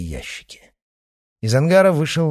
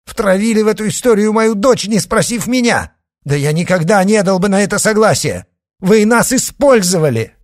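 loud, much higher furious shout; angry outburst; 12 semitones higher, 9 dB louder than usual. A narrator's reading. Father shouts at the men who deceived him. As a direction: hurl it at them in rage. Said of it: "рассерженно бросил отец".

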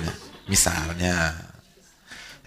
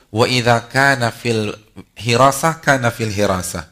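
loud, slow Arabic recitation; forceful preaching of the Arabic words; declaimed hadith; 2 semitones higher, 9 dB louder, slower than usual. Real, not acted. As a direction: proclaim it to the hall.

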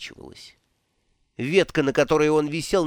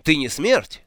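startled cry; 3 semitones higher than usual. Acted. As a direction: cry out who are you, shocked. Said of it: "вскричал Ринсвинд". (испуганный вскрик, голос взлетает вверх)

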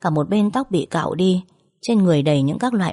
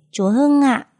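giọng bé con; 8 semitones higher, slower than usual. A narrator's reading. Bình, đứa bé, trả lời mẹ.

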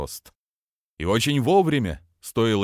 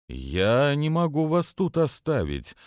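absent-minded; 6 semitones higher, slower than usual. Acted. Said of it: "бездумно выдавил Телмур".

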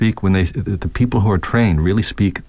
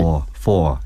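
New York four. Shown as a demonstration. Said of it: "What is a typical New York accent?".

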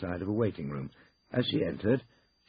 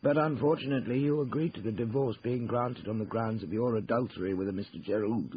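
higher-pitched, formal lawyer's voice; formal law firm partner; 5 semitones higher than usual. Acted. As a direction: lay out the divorce facts officially. Lawyer questions divorced client.

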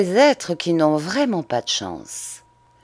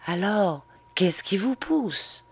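gentle voice; 4 semitones higher, 4 dB quieter than usual. Acted. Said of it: "il insista d'une voix douce".

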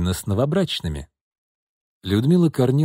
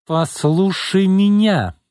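slow, much higher and louder command; raised voice; 8 semitones higher, 4 dB louder, much slower than usual. Acted. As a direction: cut her off, firmly raised voice. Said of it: "повысила голос Изольда".

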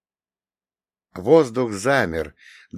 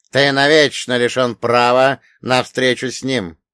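loud demon threat; 2 semitones higher, 7 dB louder than usual. Acted. Demon refuses loudly.

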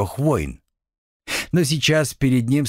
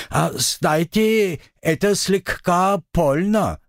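slow, high, dazed surprise; puzzled, as if just noticing; mildly surprised; 7 semitones higher, slower than usual. Acted. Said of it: "неизвестно чему удивился он".

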